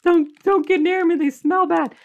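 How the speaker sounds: high, disgusted picky eater voice; whiny picky eater. Retold or imitated. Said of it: "some people are like".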